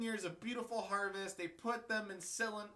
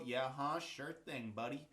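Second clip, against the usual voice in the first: low, dry mock agreement; sarcastic; 6 semitones lower than usual. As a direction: say it like you don't buy it. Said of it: "that sounded sarcastic".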